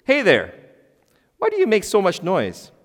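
high-pitched scolding call; oxen addressing wheels. Acted. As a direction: call out as an indignant ox. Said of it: "they addressed the wheels".

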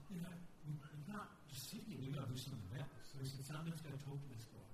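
a father quietly making up his mind; quiet resolve. Retold or imitated. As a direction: calmly settle what must be done. Dad quietly deciding to act.

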